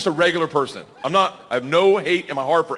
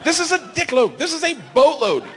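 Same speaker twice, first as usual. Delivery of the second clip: mock exasperation; 10 semitones higher than usual. Arguing with wife.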